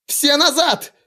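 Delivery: very high cracking shriek; голос срывается на визг. A narrator's reading. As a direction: let the voice break on the last words. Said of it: "голос сорвался".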